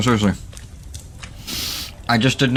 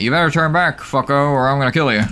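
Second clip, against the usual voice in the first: mock menacing threat; 3 semitones higher than usual. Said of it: "not-so-subtle way of saying".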